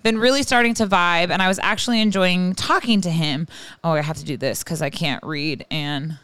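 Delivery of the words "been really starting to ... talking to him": put-on Irish slipping into Scottish; wobbly Irish-Scottish brogue; wandering Irish accent. Host reads listener email, shaky grip on Irish accent. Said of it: "this accent's going all over the place".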